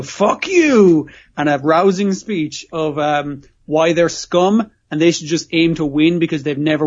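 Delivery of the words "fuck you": a retold "fuck you", punched out loud and high; forceful fuck you. Retelling Tonigawa's forceful retort to the scumbags. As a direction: bark it back at them, forceful. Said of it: "with a very forceful".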